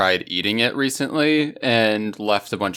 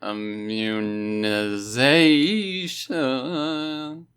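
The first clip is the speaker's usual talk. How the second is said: spooky drawn-out intro; much slower than usual. Acted.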